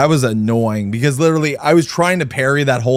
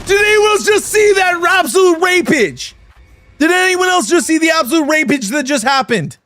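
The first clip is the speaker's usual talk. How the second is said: high silly voice; 12 semitones higher than usual. Acted. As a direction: play it up in a squeaky high voice. High-pitched mock reaction voice.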